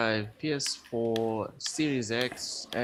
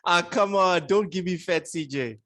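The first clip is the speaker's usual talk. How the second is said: loud, high plea through laughter; amused, raised-voice objection; laughing protest; 5 semitones higher, 4 dB louder than usual. Real, not acted. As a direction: protest while cracking up. Laughing protest at co-host's plan.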